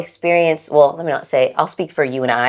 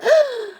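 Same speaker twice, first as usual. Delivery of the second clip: sharp high intake of breath; shocked gasp. Shown as a demonstration. Showing how she should have reacted, a high gasp. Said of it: "reacted in a".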